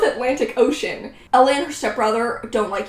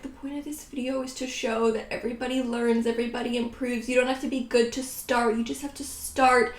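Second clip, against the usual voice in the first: hushed, faux-profound pep talk; mock inspirational speech; 6 dB quieter than usual. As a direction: play the wise mentor with a wink. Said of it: "I can do my whole thing where I'm like".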